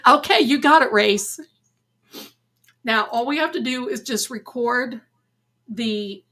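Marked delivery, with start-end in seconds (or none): 0.1-1.4 cartoon sidekick. Acting out cartoon line.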